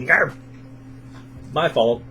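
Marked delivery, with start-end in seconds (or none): 0.1-0.3 imitated hamster snarl. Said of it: "he went".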